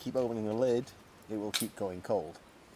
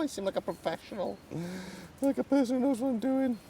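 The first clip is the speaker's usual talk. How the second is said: put-on higher, jokey Russian accent; 13 semitones higher than usual. Cook in the woods bragging about the pie, mock Russian accent. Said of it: "Don't ask me why I'm doing a Russian accent".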